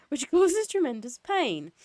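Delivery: high, loud, slowed by laughter; laughing while reading. Real, not acted. Reader resuming the story after a serotonin joke, laughing. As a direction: read on through a real laugh.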